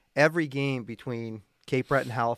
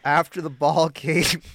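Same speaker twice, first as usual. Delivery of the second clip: spit take; 3 semitones higher, 6 dB louder than usual. Real, not acted. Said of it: "I just spit all over myself thinking about it".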